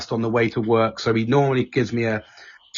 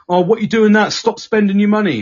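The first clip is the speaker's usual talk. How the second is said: imitating parents; 7 semitones higher, 5 dB louder than usual. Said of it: "they used to just say to me".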